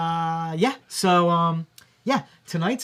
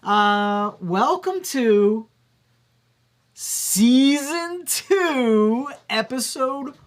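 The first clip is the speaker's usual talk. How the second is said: slow, drawn-out cartoon crab voice; a light hint of a cartoon crab; Mister Crab voice; 7 semitones higher, 6 dB louder, much slower than usual. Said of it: "I said it in my Mister Crab voice".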